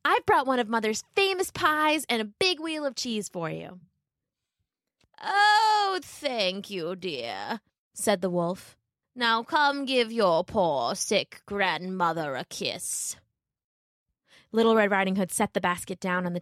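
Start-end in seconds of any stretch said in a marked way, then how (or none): 0.0-3.8 put-on high, happy child voice; bright girl cheering her granny; cheerful little girl. Little Red comforting grandmother, happily. 5.2-7.6 slow, creaky fake grandmother; a wolf feigning a sick old lady; wolf posing as granny. Wolf tricking Little Red, faking a sick granny. 9.1-13.2 slow, creaky fake grandmother; a wolf feigning a sick old lady; wolf posing as granny. Wolf tricking Little Red, faking a sick granny.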